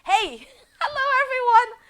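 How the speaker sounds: high, loud laughing hello; real delight at going live; excited greeting. Real, not acted. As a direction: burst into a giggly hello to viewers.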